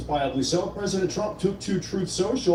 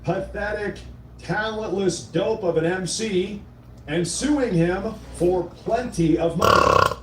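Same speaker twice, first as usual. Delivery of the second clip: reading Trump's post; 3 semitones higher, slower than usual. Retold or imitated. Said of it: "and I quote".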